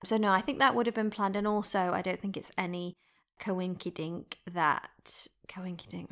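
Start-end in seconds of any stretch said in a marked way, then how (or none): 3.4-6.1 cutesy slang. Real, not acted. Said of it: "what an annoying thing to say".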